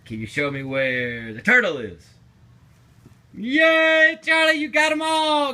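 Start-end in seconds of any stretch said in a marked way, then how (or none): 3.3-5.5 high, loud victory cheer; excited shout. Real, not acted. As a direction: celebrate at full volume. Celebrating all animals found.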